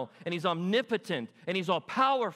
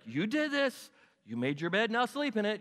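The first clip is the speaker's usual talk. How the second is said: mock parental telling-off, pitched up at first; scolding parent; 5 semitones higher than usual. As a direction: imitate an exasperated parent blaming the kids. Voicing parents scolding their kids.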